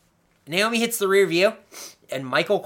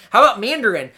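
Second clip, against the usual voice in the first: mock Cena taunt; 5 semitones higher, 6 dB louder, faster than usual. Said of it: "he yells in French".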